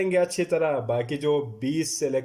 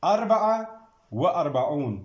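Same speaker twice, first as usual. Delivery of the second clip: teacher calling the next number; called out number; 2 semitones higher than usual. Shown as a demonstration. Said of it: "dictating numbers to class".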